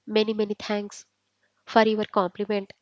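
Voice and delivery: drawn out very slowly with mock politeness; cheeky, slow, overdone thank-you to his cousin. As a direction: savour each word of the fake gratitude.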